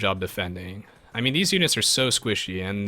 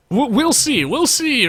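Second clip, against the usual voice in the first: playful taunt; 6 dB louder, slower than usual. Acted. Teasing taunt to chat viewer.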